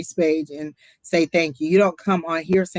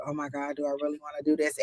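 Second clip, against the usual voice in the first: anxious inner voice; 10 dB quieter, faster than usual. Retold or imitated. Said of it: "it's just like".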